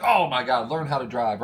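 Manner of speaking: loud mock road rage; imitating an annoyed driver in traffic. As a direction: snap at the other driver, half joking. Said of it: "And you're like".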